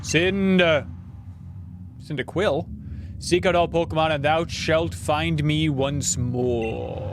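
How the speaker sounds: slow, solemn deity reading; a light cool-Santa take on a god; Arceus voice. Acted. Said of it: "my Arceus impression is just basically my".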